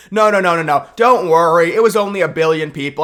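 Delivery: mock-soothing sarcasm; sarcastic reassurance. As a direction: pat them on the head, dripping with sarcasm.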